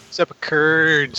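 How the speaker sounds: laughing. Real, not acted. Laughing at the curd joke.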